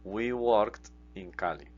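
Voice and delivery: slow, deliberate English; slow model sentence. Shown as a demonstration. Teacher modelling English translation slowly for students. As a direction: say each word slowly for learners. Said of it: "teacher models English translation".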